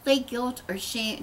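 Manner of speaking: usual speaking voice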